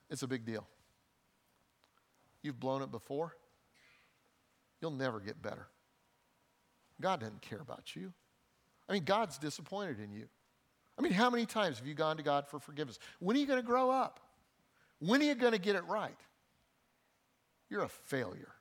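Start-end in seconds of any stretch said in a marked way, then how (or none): 0.1-10.3 voice of less. Acted. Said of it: "the voice of less says". 13.2-18.5 voice of less. Acted. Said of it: "That's what the voice of less says".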